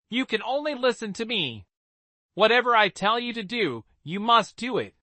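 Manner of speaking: high, imperious angry lecture; angry scolding. Acted. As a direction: berate him like a servant. Spoiled girl berates beast.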